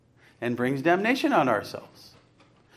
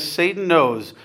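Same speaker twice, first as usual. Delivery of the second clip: quoting slowly; slower than usual. Real, not acted. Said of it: "He says".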